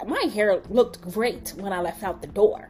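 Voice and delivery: indignant retort, starting loud; offended. Retold or imitated. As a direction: protest in mock offence. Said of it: "I'm really sitting here offended".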